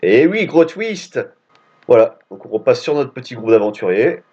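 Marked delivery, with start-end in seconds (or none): 0.0-1.2 mock dramatic. Real, not acted. Player comments plot twist.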